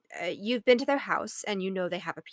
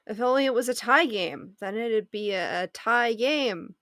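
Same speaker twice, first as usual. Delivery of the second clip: joke setup; 2 semitones higher than usual. Acted. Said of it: "you get it?".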